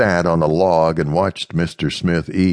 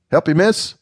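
politely, voiced higher; 14 semitones higher, 3 dB louder than usual. Slave woman greeting Amanda, polite. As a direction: offer help courteously. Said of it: "in a polite voice".

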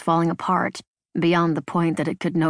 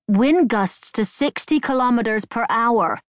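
reading aloud; 5 semitones higher than usual. A narrator's reading. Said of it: "She was reading".

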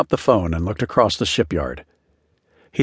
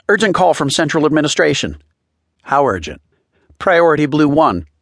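excited; 7 semitones higher, 4 dB louder than usual. Acted. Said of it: "quite excited and out of breath".

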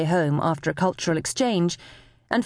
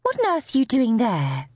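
high, incredulous question; baffled motherly demand, higher voice; astonished mum; 6 semitones higher than usual. A narrator's reading. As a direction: voice a mum taken aback, pitched up. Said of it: "as Mum asked".

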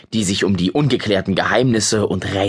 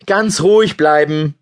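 called after; 4 semitones higher, 4 dB louder than usual. Acted. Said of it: "rief er hinterher".

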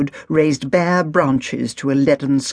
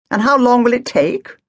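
higher, sharp impatient question; impatient Agatha; 8 semitones higher, 3 dB louder than usual. A narrator's reading. Agatha pressing the youth, higher and impatient. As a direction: demand an answer, clipped patience gone.

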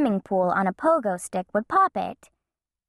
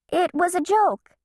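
put-on sheepish child voice; 9 semitones higher than usual. Bean backpedaling.

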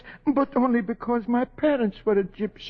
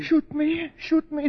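alarmed; 6 semitones higher than usual. Acted. Told he will be shot.

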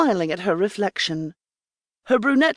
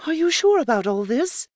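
higher, lively servant voice; Mirror; 9 semitones higher than usual. Acted. Mirror bursting in to tell Sophie, eager and higher. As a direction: announce the news eagerly.

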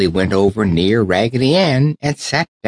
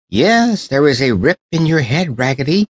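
much higher, startled exclamation; French doll's discovery; 6 semitones higher than usual. Acted. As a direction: point out the rip eagerly. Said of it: "she said".

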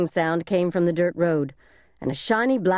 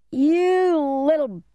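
slow, much higher furious yell; angry shout; 10 semitones higher, 3 dB louder, slower than usual. A narrator's reading. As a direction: roar at the kid. Man chasing the boys.

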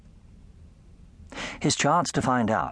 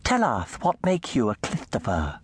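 cooing lisp. Acted. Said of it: "they would coo in lisping voices".

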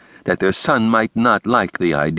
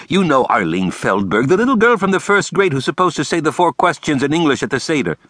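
higher, fussy theatrical principal; the speaker's voice; 8 semitones higher than usual. A narrator's reading. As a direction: lay it out with flair.

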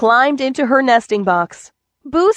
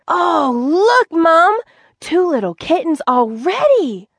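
put-on little girl voice; 7 semitones higher, slower than usual. Mother asks Avon to leave the TV, little girl agrees. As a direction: play the four-year-old giving in.

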